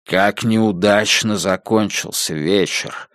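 mournful sigh of a gentleman; sad. Acted. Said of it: "Холт печально покачал головой". (печально, тихо и медленно)

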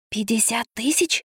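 soft, slow whispered question; hushed disbelief. A narrator's reading. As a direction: breathe the sum out quietly. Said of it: "прошептала я".

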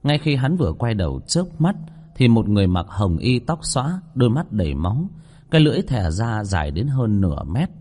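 measured ghost-story reading; story narration. A narrator's reading. Narrator telling listeners of an eerie kitchen, story narration. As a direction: read the chapter out to listeners.

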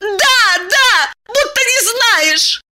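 high, insistent yes; exasperated woman. A narrator's reading. Diana snaps at Eliseev, high and exasperated. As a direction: snap it high and impatient.

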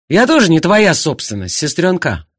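Anthony snapping at his sister. Acted. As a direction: bite back at her sharply. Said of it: "он так не огрызался".

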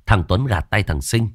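ordinary delivery, nothing marked

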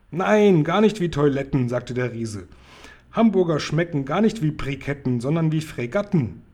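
loud, insistent giant voice; the giant stubbornly setting her straight; indignant giant. Acted. Giant contradicting Sophiechen, loud and indignant.

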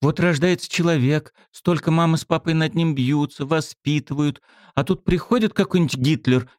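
high, earnest, rising speech; girl gaining courage as she speaks; emboldened. A narrator's reading. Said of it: "осмелела".

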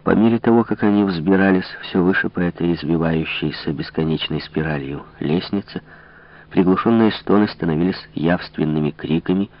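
usual speaking voice

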